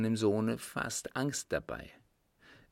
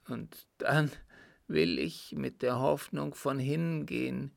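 measured, heavy-hearted dread; tormented dying father; 5 semitones higher than usual. Acted. Father telling his son of God's judgement, tormented. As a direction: refuse comfort, fearing the judgement.

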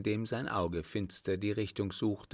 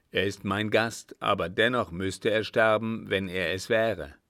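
a somewhat firm, louder elder figure; hint of a weighty desert chief; lightly voiced sheik; 5 dB louder than usual. Sheik telling his son of unknown dialects, firm.

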